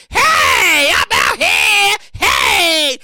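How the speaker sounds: loud, drawn-out call to the crowd; excited hype shout. Retold or imitated. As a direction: shout it out like stepping onto stage.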